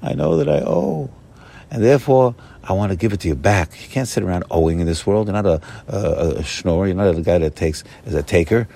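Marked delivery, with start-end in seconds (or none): 0.0-3.7 King David's plea. Retold or imitated. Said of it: "And he says".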